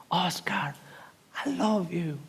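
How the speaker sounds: soft whisper calling his name; a tender inner murmur; whispered voice of God. Retold or imitated. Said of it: "cuando susurró nuevamente".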